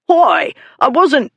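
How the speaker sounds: high, slow, befuddled denial; a drunk caught out, bleating; drunken protest. Acted. Drunk dog beater protesting to the lady, high and slow.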